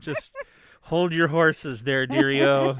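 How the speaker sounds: mock old-timer drawl. Teasing wife to wait.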